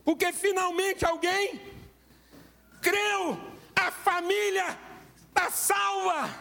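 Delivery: slow, high, drawn-out proclamation; preaching. Acted. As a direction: preach each phrase slowly. Slow emphatic preaching climax.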